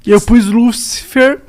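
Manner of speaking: low, quiet voice of God. Retold or imitated. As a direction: speak as a calm, knowing God. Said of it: "se Deus tava assim, tipo".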